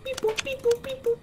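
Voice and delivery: high robot beep boop. Pretend. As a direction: chirp like a little robot. Robot noises.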